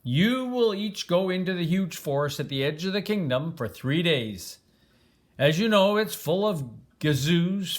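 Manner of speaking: a hint of a grand king, announcing with ceremony; royal decree. King addresses the three princes, lightly voiced royal proclamation. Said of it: "The king told the three princes this".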